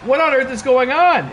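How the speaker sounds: high disbelieving question; shocked. Real, not acted. Streamer gaping at a wrestler's gear, shocked.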